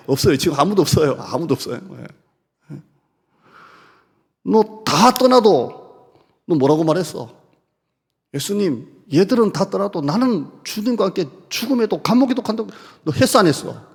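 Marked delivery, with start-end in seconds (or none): 4.4-13.8 scolding. Acted. Preacher voicing scolding of disciple.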